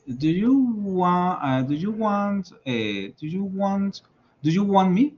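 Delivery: "want" said as "wan", no T before me; T dropped in want. Shown as a demonstration. Teacher modeling English, then "want" with silent T. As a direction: drop the T in "want". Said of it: "esa T no se pronuncia".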